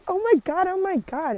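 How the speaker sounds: high, thrilled squeal; excited. Retold or imitated. Reacting to his reply about Jesus, high thrilled squeal. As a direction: squeal with delight. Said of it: "And I got so excited".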